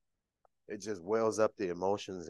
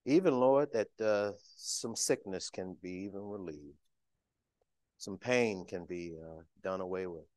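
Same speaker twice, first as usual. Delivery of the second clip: prayer voice. Real, not acted. Speaker opening the sermon in prayer, reverent. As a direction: pray it reverently to the Lord.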